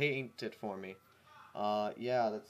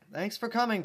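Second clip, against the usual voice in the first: calling out; 8 semitones higher, 3 dB louder than usual. Acted. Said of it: "Twilight called out".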